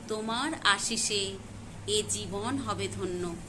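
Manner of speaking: measured recital with pauses between phrases; deliberate, paused verse reading; poetry recitation. Acted. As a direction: recite your tribute, lingering on the phrases. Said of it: "আবৃত্তি করে শোনাচ্ছি".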